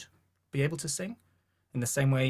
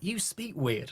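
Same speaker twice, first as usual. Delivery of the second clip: schoolkid; 7 semitones higher, slower than usual. Retold or imitated. Voicing schoolkids' reaction to accent.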